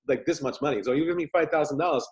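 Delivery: normal talking voice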